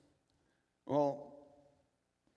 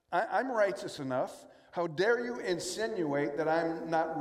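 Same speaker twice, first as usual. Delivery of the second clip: indignant objector. Retold or imitated. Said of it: "The objection is this".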